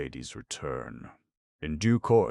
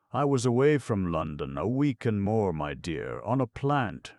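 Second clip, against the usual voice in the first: put-on wheedling old man; 5 semitones higher, 4 dB louder than usual. Fagin's fawning reply.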